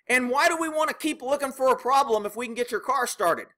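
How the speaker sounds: a hint of a defensive manager brushing off the complaint; mimicking Randy. Voicing Randy the service manager.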